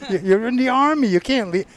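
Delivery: loud, high officer's shout. Retold or imitated. Army officer blocking a deserter, loud shout. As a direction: yell it as the stern MP. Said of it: "That's right".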